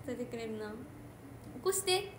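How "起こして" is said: higher, curt 起こして; short command. Retold or imitated. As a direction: bark the bare order at the phone. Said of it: "ぐらいやもん".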